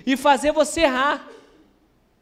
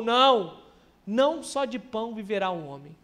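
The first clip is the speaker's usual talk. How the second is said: understated hungry Jesus, falling softer; Jesus imaginado com fome; 3 semitones lower, 4 dB quieter than usual. Retold or imitated. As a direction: imitate a firm refusal that drops low and quiet. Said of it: "eu dei uma entonação aqui". (recusa de Jesus, em tom baixo)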